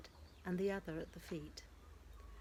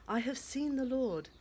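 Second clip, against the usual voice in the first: higher and louder, bursting with news; joyful announcement; 6 semitones higher, 7 dB louder than usual. Acted. Mary telling the disciples, high and joyful. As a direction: tell them as if you can barely contain it.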